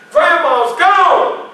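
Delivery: very slow, high, loud disbelief; boy repeating the news in disbelief, slow and high; stunned child. Retold or imitated. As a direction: echo it as it sinks in.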